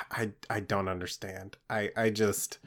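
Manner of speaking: soft, weary exasperation; sighing and deflated. Acted. Smirk sighs to the party, worn out. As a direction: let it sag out on a sigh.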